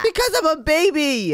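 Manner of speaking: lightly voiced baby talk. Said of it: "why are you talking like that".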